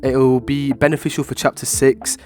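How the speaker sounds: stuffy, congested voice; blocked nose. Real, not acted. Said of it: "sounds like someone's holding my nose".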